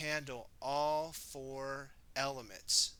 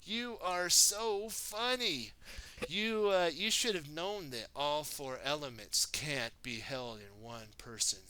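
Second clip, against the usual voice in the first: mocking villain; 2 semitones higher than usual. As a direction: taunt him like a smug villain. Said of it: "laughing at him".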